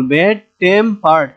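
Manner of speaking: ব্যাড টেম্পার্ড split into its syllables; counted-out ব্যাড টেম্পার্ড. Shown as a demonstration. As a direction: separate ব্যাড, টেম and পার্ড evenly. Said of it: "এখানে তিনটা syllable".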